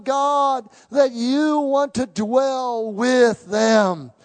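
loud, pleading prayer that swells at the end; impassioned altar prayer; fervent prayer. Acted. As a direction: call on God for the people, pressing harder. Praying aloud over the church.

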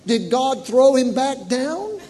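put-on a touch of a slow childish question; lightly voiced small boy; little boy confused. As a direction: ask it innocently like a confused kid. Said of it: "and he said".

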